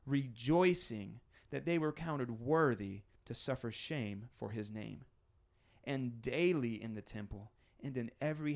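measured, emphatic Bible reading; deliberate pulpit reading; scripture reading. Acted. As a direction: read the verse aloud to a congregation, drawing out key phrases. Reads the Bible passage aloud.

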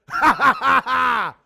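loud fake laughter; mocking laugh, not buying it. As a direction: cackle it off as a joke. Acting someone laughing at him.

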